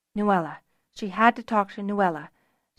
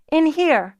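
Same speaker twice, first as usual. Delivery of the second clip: high, loud call; 8 semitones higher, 6 dB louder than usual. A narrator's reading. Fiona calls to Tamar outside, calling out. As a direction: call through a door to be found. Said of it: "Fiona called".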